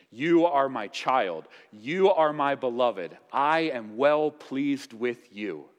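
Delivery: slow, tender fatherly blessing. Acted. Preacher voicing God's tender blessing to his son. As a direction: lay each word down gently like a blessing.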